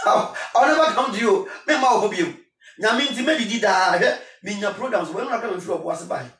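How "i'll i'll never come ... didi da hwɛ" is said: loud protest. Real, not acted. Laughing, then loud protest.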